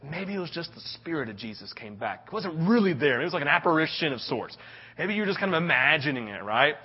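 nervous doubt. Acted. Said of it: "They're saying".

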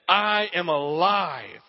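slow, low and tender; gentle declaration. Retold or imitated. Jesus telling the disciples, slow tender declaration. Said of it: "Jesus said".

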